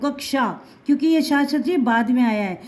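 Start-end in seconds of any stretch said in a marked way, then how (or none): 0.0-0.6 कक्षा pronounced "kak-sha"; teacher demonstrating कक्षा as kak-sha; half-k in कक्षा. Shown as a demonstration. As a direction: close on k before sha in कक्षा. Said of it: "बिना इसके नहीं बोल पाओगे".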